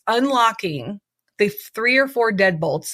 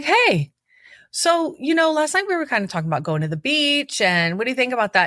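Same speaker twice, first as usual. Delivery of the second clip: high, sugary and fast, changing the subject; overly nice, bright-eyed voice to smooth things over; sweet-talking; 6 semitones higher than usual. Retold or imitated. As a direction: put on a much higher voice to sweeten him up. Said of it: "So I switch my tune a little bit".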